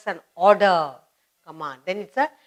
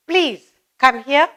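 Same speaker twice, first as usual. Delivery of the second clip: polite request; 4 semitones higher, 4 dB louder, slower than usual. Shown as a demonstration. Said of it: "ordering somebody".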